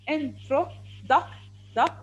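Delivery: "intro, duck" in separate beats, "duck" repeated alone; sounding out syllables. Shown as a demonstration. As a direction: chop it into in, tro, then "duck" by itself. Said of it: "This is the second sound".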